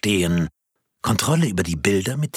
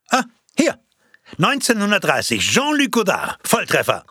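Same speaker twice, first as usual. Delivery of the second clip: excited find; 11 semitones higher, 4 dB louder than usual. Acted. Finds the right birthday entry.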